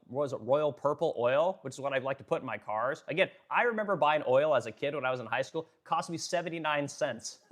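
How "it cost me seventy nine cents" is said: laughing. Real, not acted. Recalls cheap oil, laughs.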